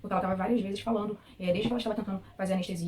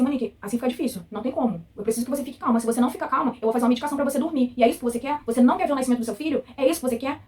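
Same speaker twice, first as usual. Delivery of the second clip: imitating a threatening nurse, louder; 4 semitones higher, 6 dB louder than usual. Patient imitating the nurse threatening to sedate her, loud and scolding. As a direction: scold and threaten with rising pressing questions. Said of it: "ela falou assim".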